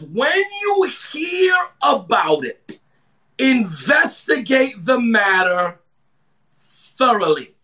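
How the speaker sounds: slow, stretched preacher's cadence; emphatic scripture reading. Real, not acted. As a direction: read the verse slowly with weighty pauses.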